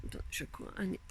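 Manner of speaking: quick whispered aside off-mic. Real, not acted. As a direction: murmur it under your breath. Aside while fixing something. (aparté chuchoté)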